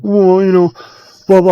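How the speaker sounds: high, dismissive mock voice; mocking her excuse. Mimicking her brushing off the question, mock high voice.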